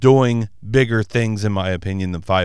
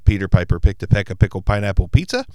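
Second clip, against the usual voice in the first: tongue twister test; 4 dB louder, faster than usual. Shown as a demonstration. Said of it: "put it through its paces".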